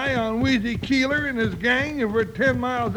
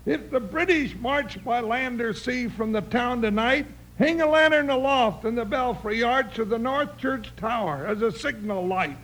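poem recitation. Pretend. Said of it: "that's right, and that's enough".

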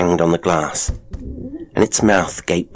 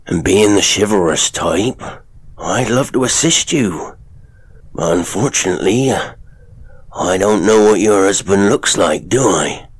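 sly showman father; 3 semitones higher, 4 dB louder than usual. Acted. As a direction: lean in and taunt her. Father mocks chivalry.

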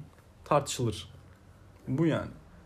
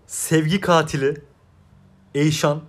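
Ezel line impression; 3 dB louder than usual. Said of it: "Ezel demişken bunu demek istedim".

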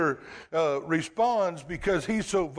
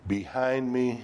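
stern rebuke; 5 semitones lower, slower than usual. Retold or imitated. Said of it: "he rebuked Peter".

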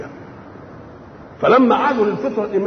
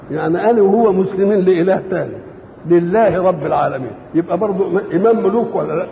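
ordinary talk

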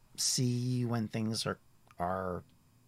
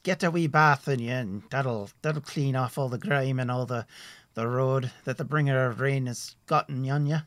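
higher, louder, hearty traveller's voice; a cheerful forest ranger chatting; friendly woodsman Tim; 4 semitones higher, 6 dB louder than usual. Acted.

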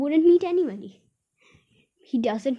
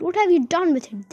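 louder, higher accusing question; crying out; 6 semitones higher, 5 dB louder than usual. A narrator's reading. Aunt accusing Meddle, raised and high. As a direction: demand it of the nephew. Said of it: "she cried".

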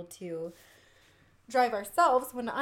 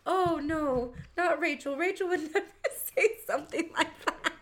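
mock parental disbelief; 6 semitones higher than usual. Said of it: "my parents' reaction".

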